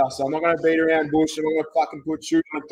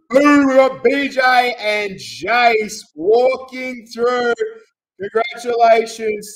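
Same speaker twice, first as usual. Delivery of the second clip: excited call; 5 semitones higher, 6 dB louder, much slower than usual. Real, not acted. Announces the winners of the roll.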